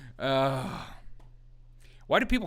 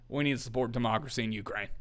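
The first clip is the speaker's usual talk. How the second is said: mock Lindsey; 3 semitones lower, 5 dB quieter, faster than usual. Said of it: "Lindsey walks out and is like".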